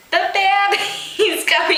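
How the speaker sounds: high, rushed cry that labour has begun; urgent. A narrator's reading. Noya telling everyone the baby's coming, urgent. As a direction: push the news out in a panic. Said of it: "he said".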